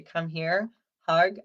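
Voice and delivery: put-on bright beckoning call to a child; cheerful call to hug. Shown as a demonstration. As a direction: mom calling her kid in for a hug, loud and upbeat. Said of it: "They know if I say".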